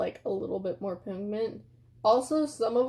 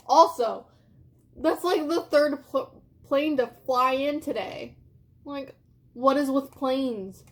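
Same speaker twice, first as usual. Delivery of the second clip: hammed-up indignation at her friend; exasperated rant; 3 semitones higher, 4 dB louder than usual. Telling her friend Kayla the palette is bad, loud exasperated rant.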